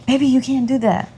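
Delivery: retold mild telling-off, pitch lifted. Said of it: "raised my voice a little bit".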